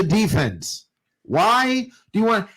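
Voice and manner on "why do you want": forced calm snapping into an angry outburst; holding it together, then blowing up; calm turning angry. Real, not acted. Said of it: "I'm trying to stay calm on this one".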